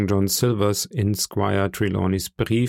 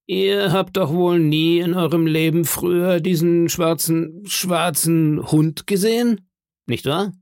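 higher-pitched, pointed questioning; very serious; 7 semitones higher than usual. Acted. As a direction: lead the witness firmly to a denial. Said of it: "sagte Long John sehr ernst".

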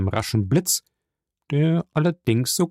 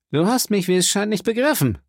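higher-pitched, coolly controlled reproach; cold, calm; 9 semitones higher, faster than usual. A narrator's reading. Caderousse tells Andrea he has misunderstood, cold. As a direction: correct him coldly, keeping composed. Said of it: "kalt und mit ruhiger Miene".

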